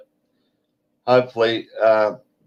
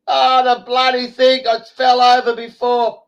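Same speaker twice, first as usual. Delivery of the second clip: imitating the woman; 12 semitones higher, 4 dB louder than usual. Woman answers in retold quarrel.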